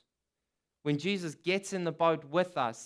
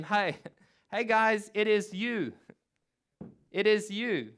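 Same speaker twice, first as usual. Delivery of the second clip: higher, half-laughing mock line; mock wrong version; 5 semitones higher, 3 dB louder than usual. Shown as a demonstration. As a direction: play the silly wrong answer with a chuckle. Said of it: "he doesn't say to them".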